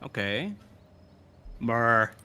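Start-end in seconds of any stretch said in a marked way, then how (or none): 1.6-2.1 mildly booming call. Acted. Player as their giant character calling to Mur, mildly booming voice. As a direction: call the name out with a lower boom. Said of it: "I say with a booming".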